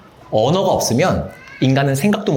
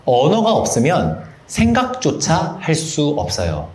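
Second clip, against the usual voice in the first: usual speaking voice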